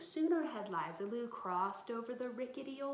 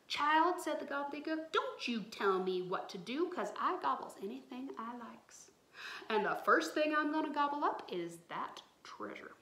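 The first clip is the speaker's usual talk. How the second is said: loud scolding swamp monster; bossy monster; 3 semitones higher, 4 dB louder than usual. Acted. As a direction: snap at the child like a greedy beast.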